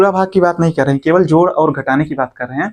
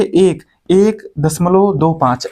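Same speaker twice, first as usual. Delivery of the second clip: slow reading demo; much slower than usual. Shown as a demonstration. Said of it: "ऐसे पढ़ेंगे".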